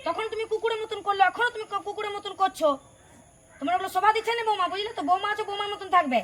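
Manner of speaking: high-pitched indignant rebuke; indignant scolding. Acted. Mother-in-law rebukes daughter-in-law.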